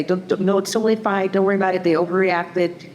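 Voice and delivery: lightly voiced adult brushing feelings aside; dismissive reassurance. Adult talking someone out of an emotion, dismissively reassuring. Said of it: "somebody tries to say".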